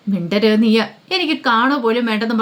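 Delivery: a touch of angry command; mildly angry, shutting her up; angry dismissal. Acted. Father silencing his daughter, mildly angry. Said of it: "Balendran ദേഷ്യപ്പെട്ട്".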